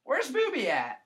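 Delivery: high, loud mock teacher asking; teacher's call. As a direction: call out for the doll like the clueless teacher. Teacher asking for hidden doll.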